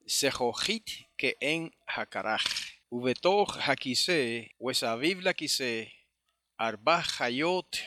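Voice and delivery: slow, measured Hebrew recitation; Hebrew scripture reading. Acted. Teacher reading verse five to the brethren, slow Hebrew recitation. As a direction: read the Hebrew out slowly, phrase by phrase.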